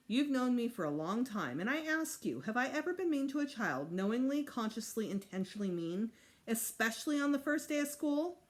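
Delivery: lightly voiced offended kindergarten teacher; a hint of a wounded, proper teacher; indignant teacher. Missus Hildbrint pleading to the principal, lightly indignant.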